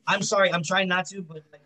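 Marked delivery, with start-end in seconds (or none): 1.1-1.6 cutting out mic audio; choppy broken-up connection; glitching audio. Real, not acted. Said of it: "your mic just went like this".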